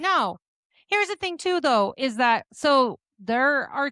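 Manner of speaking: high, loud rushed rebuttal; flustered. Real, not acted. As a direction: voice up, fighting back.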